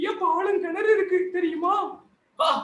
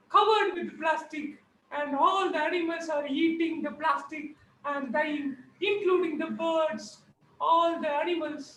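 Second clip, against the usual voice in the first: higher, slow granny voice; shocked, lecturing granny; 3 semitones higher, much slower than usual. Acted. Granny is shocked and laments that animals eat plastic.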